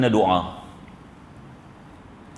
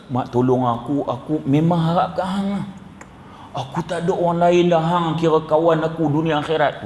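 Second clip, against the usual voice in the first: pleading for a loan. Pretend. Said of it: "Ni intonasi nak minta ni".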